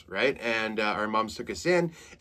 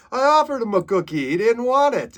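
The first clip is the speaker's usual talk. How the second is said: whiny son; 12 semitones higher, 7 dB louder than usual. Retold or imitated. Son complaining about customer.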